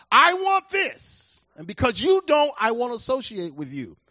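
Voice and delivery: a hammed-up selfish church member; mock selfish demand. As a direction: mimic a spoiled believer insisting on his way. Voices a selfish believer.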